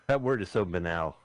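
"banal" said as buh-NAL; doubtful pronunciation of banal. Real, not acted. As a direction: stress the second syllable of "banal", buh-NAL. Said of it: "Did I pronounce that word right?".

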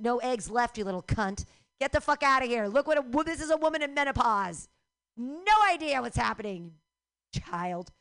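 put-on loud furious rant at the boy; angry menopausal rant. Woman in menopause yelling at the pamphlet boy, loud and furious. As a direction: yell at the kid, fed up. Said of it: "I'm like".

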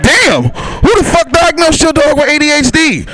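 high, drawn-out disbelieving outburst; mock shocked shout. Retold shocked outburst about dog.

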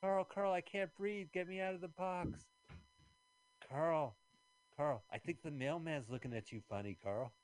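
high squeaky dummy voice; squeaky ventriloquist dummy. Pretend. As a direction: play a creepy little puppet. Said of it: "Ventriloquist dummy, are you here?".

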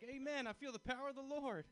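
high, loud hallelujah shout; mock revival fervor. Hugged by a stranger, he shouts back in mock fervor. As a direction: belt it like a church convert. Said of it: "I was like".

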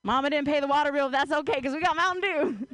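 lightly voiced hillbilly kid; understated Southern accent; country accent. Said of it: "in a country accent".

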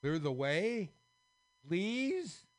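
loud, rising to a very high please; beg, frightened; scared plea. Acted. Scared kings pleading with the squares, begging.

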